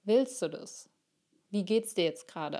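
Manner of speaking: calm loving voice. Acted. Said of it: "sehr ruhige, liebevolle Stimme".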